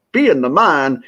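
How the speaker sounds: a hint of Becky Lynch's Irish accent; Becky Lynch Irish brogue. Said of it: "I have to say it in the Becky Lynch Irish brogue".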